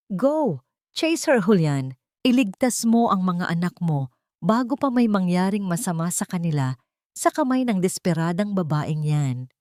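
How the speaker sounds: lightly voiced stern matriarch commanding; harsh command. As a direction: push him out the door, understated. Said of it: "Ang huling utos ng Donya".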